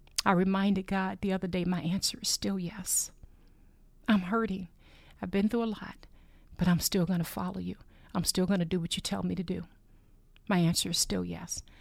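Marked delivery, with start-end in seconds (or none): 1.7-3.2 soft, whispered speech. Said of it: "as I've whispered to him".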